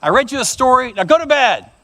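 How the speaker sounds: a touch of fed-up father; lightly voiced dad laying down the law; exasperated dad. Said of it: "And the dad said".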